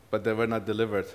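soft, low, with long pauses; grave, hushed preaching. Real, not acted. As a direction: let each word sink in quietly. Grave point made after laughter.

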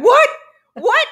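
surprised. Acted. Mock surprise on a high pitch.

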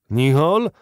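astonished shout, swinging upward; startled exclamation. A narrator's reading. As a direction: call the name out in sudden surprise. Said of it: "zawołał Barbicane".

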